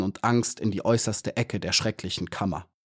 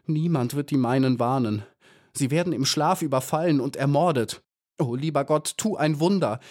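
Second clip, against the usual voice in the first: desperate plea; 4 semitones higher than usual. Acted. Maya's desperate prayer.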